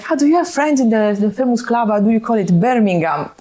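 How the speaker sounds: high, laughing South Italian imitation; strong South Italian accent. Retelling the fan's club mix-up, in a hammed-up South Italian accent. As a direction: ham up the South Italian fan. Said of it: "Imagine, like, the accent".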